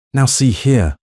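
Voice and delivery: a high, loud bluster, lightly voiced; mild mock outrage of a pompous uncle. A narrator's reading. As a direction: puff up and bluster at her. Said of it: "her uncle blustered".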